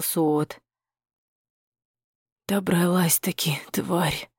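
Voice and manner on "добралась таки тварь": hoarse hateful rasp, a touch quieter. Acted. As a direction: rasp it out at her. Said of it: "прохрипел хранитель". (хриплым злобным голосом)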